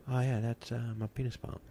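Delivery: casually owning the embarrassing pump, calm; dead calm. Retold or imitated. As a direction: say it like it's nothing at all. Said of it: "this calm".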